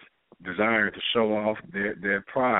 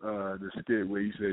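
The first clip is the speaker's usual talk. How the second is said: ordinary talk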